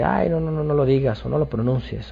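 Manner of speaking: high-pitched, a little fast, mock alarm; mock fretful believer. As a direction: squeal it like a scandalized zealot. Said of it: "no es de que".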